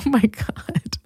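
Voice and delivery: breathless whispered aside through laughter; laughing whisper. Real, not acted. Host reacting to sister's answer, laughing whisper. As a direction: let it slip out under the breath while laughing.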